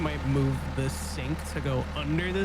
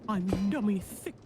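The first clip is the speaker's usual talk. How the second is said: lightly voiced slow bear, a bit higher; a hint of a dopey teddy bear; slow mock Pooh bear; Winnie the Pooh voice; 5 semitones higher, slower than usual. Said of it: "You sound like Honey the Pooh".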